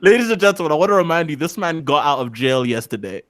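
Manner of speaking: lightly hammed-up closing argument; mock lawyer. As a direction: play a lawyer addressing the jury. Mock courtroom address to jury.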